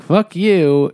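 what Toad should have yelled at the car; mock angry retort. Toad yelling at the car that wrecked his carriage, mock angry. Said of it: "instead of being like".

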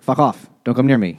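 mock-annoyed brush-off; retold grumpy refusal; pissed off. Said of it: "he's all pissed off".

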